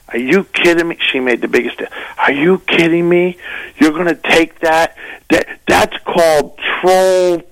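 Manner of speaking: retelling a comedian friend scolding him, mildly indignant; mock indignant woman. Comedian friend voiced in an argument.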